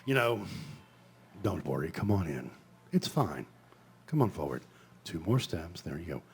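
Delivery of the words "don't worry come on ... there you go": oily black dragon. Acted. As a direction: lure them in, slick and oily. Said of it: "unctuous and oily".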